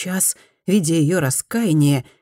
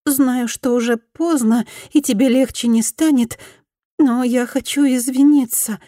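faltering babble; 8 semitones higher than usual. Acted. Repentant woman apologises to Fumi, lightly faltering voice. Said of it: "лепетала она срывающимся голосом".

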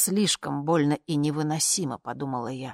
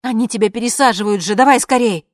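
fast, loud and higher urging; urgent; 7 semitones higher, 13 dB louder than usual. Acted. Woman urging the dictator to hurry back, loud and fast. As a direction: hurry him along, voice rising.

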